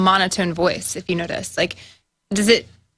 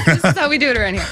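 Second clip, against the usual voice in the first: laughing; faster than usual. Real, not acted. Said through laughter.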